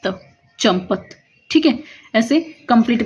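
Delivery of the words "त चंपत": त चंपत said slowly and lower; slow spelled word. Shown as a demonstration. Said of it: "और ये". (चंपत को धीरे-धीरे जोड़कर बोलना)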